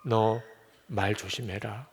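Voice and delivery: low, slow, hushed caution; lightly voiced God, grave and soft; solemn divine warning. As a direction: warn him slowly and quietly. God's warning repeated, acted.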